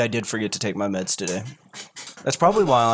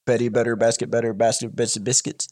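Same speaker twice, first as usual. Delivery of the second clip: numb tongue. Real, not acted. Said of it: "I don't know you can say that normally".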